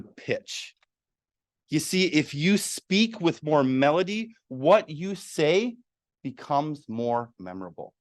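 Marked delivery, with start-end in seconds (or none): 1.7-7.9 melodic speech. Shown as a demonstration. Speaker demonstrating melody to the audience, lively rising pitch. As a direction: lively pitch that rises and falls across the phrase. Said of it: "Let me say that one more time".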